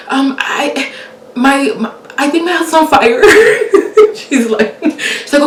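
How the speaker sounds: high, loud frantic pleading; a panicked woman begging the dispatcher; panicked caller. Retold or imitated. Caller to 911 about the pan fire, panicked and high.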